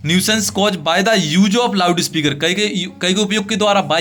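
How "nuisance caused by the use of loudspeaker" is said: very slow, each word set apart; slow dictation. Shown as a demonstration. Teacher reading the letter line to students, very slow. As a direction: dictate it so they can copy it. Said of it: "teacher dictating letter slowly".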